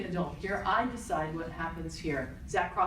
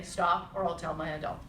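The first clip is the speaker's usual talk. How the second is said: calm; 3 semitones lower than usual. Shown as a demonstration. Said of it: "All of you calmly say".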